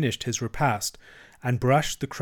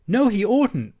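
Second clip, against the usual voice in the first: high, loud contradiction; indignant shout; 9 semitones higher, 5 dB louder, slower than usual. A narrator's reading. Mole contradicts Rat over supper, indignant shout. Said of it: "shouted the Mole with his mouth full".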